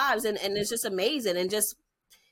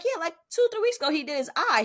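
retold in a much higher, eager voice; high retold answer; 8 semitones higher than usual. Mom to doctor, answering eagerly about injuries, high-pitched. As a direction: pitch it way up, chirpy. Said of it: "And I was like".

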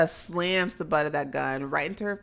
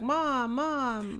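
mock child calling; 8 semitones higher, 3 dB quieter than usual.

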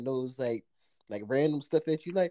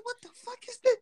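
high-pitched mock shock; retold disbelief, pitched way up. Retelling what he said at the shelf, shocked.

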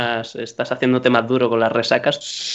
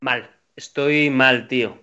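hungover; slower than usual. Real, not acted. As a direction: drag the words out, head pounding. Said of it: "Estoy de resaca".

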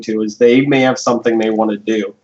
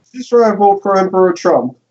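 mock Russian Putin; 6 semitones higher than usual. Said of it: "Hello, comrade".

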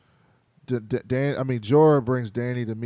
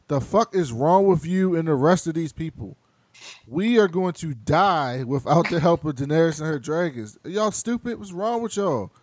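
mock angry Jon; 5 semitones higher, 5 dB louder than usual. Jon scolds Sansa, retold.

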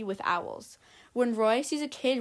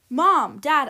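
calling out; 4 semitones higher, 9 dB louder than usual. Acted. Roy calling to his parents.

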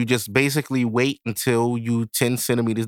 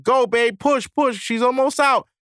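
urgent cheering; 13 semitones higher than usual. Retold or imitated. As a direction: cheer her through the last push. Cheering his girl during birth.

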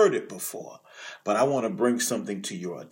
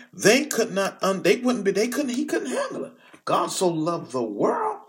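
rising fervor; 8 semitones higher, faster than usual. Real, not acted. Preacher building to fervor about the Pharisees, higher and faster.

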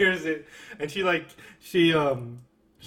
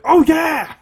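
higher, louder oh yeah cries; mock shouted moans; 11 semitones higher, 9 dB louder, much slower than usual. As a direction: yell the moans back. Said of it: "They're both like".

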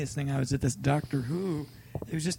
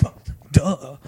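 sarcastic duh; 6 dB louder than usual. Retold or imitated. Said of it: "And I'm like".

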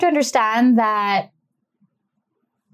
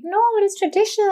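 insisting; 11 semitones higher, faster than usual. Retold or imitated. Colleagues insisting.

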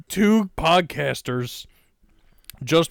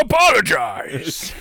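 mock; 6 semitones higher, slower than usual.

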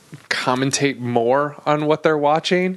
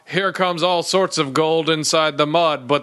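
mock announcer. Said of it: "doing the same announcer".

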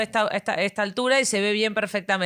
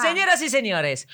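stadium announcer. Pretend. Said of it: "con voz de locutor de estadio".

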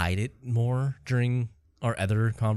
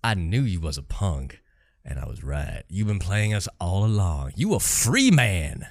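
slow Southern villain line, swelling at the end; Southern accent; slower than usual. Acted. Villain taunts the hero in a movie scene, Southern accent.

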